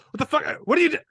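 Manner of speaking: high mock outburst; Christian Bale. Imitating the actor annoyed by the lighting tech, mock outraged. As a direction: snap into exasperated yelling, cut off midway. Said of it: "as Christian Bale doing an apology".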